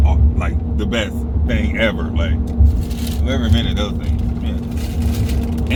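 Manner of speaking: talking with food in mouth; eating while talking; mouth full. Real, not acted. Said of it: "Sorry about eating on camera".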